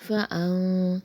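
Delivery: فَأَن with the nun turned into m before ba; فَأَن as fam; iqlab. Shown as a demonstration. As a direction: say فَأَن as if fam, lips closing. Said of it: "اقلاب کا قاعدہ ہوگا".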